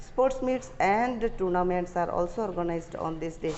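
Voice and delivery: slow, deliberate read-aloud for students; slow dictation reading. Acted. Teacher dictating the English passage slowly to students. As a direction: read each phrase slowly so the class can follow.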